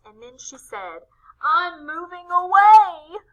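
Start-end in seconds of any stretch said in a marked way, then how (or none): 1.4-3.2 tearful. A narrator's reading. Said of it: "Connie sniffed and hiccuped".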